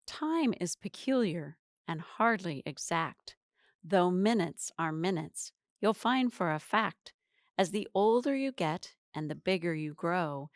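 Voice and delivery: lightly measured verse recital; poem reading. Acted. Teacher reciting a poem about time to viewers, measured verse. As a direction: read it as rhyming verse, phrase by phrase.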